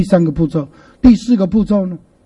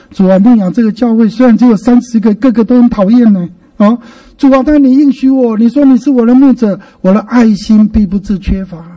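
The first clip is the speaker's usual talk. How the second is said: demonstrated personal prayer; 2 semitones higher than usual. Shown as a demonstration. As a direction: raise the voice pleadingly to God. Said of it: "把你自己跟目前的情境融化进".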